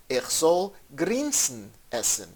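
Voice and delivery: "grinsen" lifted in pitch before "essen"; emphasis on GRINSEN. Shown as a demonstration. Teacher shows word order for emphasis, stressing "grinsen". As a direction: put the weight on "grinsen". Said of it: "if needed for emphasis".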